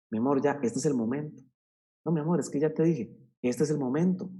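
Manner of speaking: loving but firm parent; gentle tone. Shown as a demonstration. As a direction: coax the child kindly. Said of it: "en esta frecuencia de tono".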